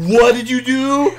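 high, loud, slow mock outrage; imitated high-pitched indignant reaction; voicing game animal. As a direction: draw out the animal's shocked question. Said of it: "He's like".

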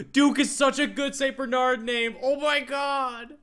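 high, drawn-out gushing; gasp, then gush slowly up high; so excited. Real, not acted. Player thinking up a Saint Bernard name, so excited. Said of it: "I see a Saint Bernard and I get so excited".

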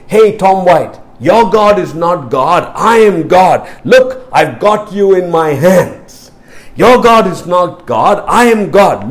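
loud, slow taunting jailer; a hint of a gloating prison guard; mocking guard. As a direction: sneer it like a cruel guard gloating.

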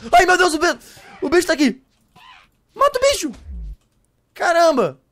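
shrill, loud panicked yells; panicked screaming. Real, not acted. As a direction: scream for help at the monster. Monster attacking him.

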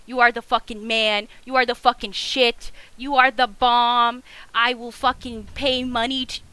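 loud, punched-out praise; emphatic gushing. Real, not acted. Gamer showering the helper with praise, emphatic gushing. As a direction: hammer each compliment home, loud and adoring.

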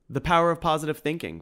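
high, quick, chirpy interjection; boy pipes up high and quick to the two men; piped up. Acted. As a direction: pipe it up high and fast, eager. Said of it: "piped Tim".

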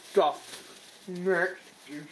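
talking around a mouthful of gummies; mouth full. Real, not acted. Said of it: "talk with my mouth full".

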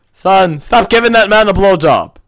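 hammed-up scandalised parent; mock scolding yell. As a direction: yell at the kid, hamming it up. Scolding the game character.

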